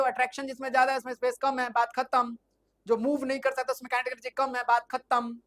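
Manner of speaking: fast, firm and decisive; emphatic summing up. Shown as a demonstration. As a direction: lay it down as settled, case closed. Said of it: "ऐसे पढ़ना है". (तेज़, दृढ़ और पक्के अंदाज़ में)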